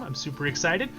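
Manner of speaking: normal talking voice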